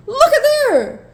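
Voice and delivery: high, drawn-out playful exclamation; excited reveal. Real, not acted. Showing viewers where the washer goes, excitedly. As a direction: sing it out high and slow.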